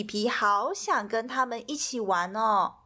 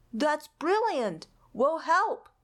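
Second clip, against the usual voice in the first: bright, higher burst of enthusiasm; eager Spike; 5 semitones higher than usual. A narrator's reading. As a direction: jump in eagerly, lifting the pitch. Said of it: "said Spike".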